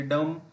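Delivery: "डम" ending on the M, no B; silent B. Shown as a demonstration. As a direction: say "डम" with the final B unspoken. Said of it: "इसमें बी का pronunciation नहीं करेंगे".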